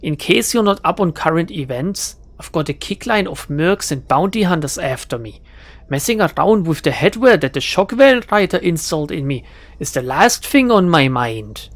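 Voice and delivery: put-on irritated speaker in a German accent; lightly acted German accent. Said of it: "German accent".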